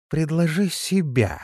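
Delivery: measured icy contempt; icy challenge. A narrator's reading. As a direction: throw down a cold challenge slowly. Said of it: "произнесла она с ледяной интонацией".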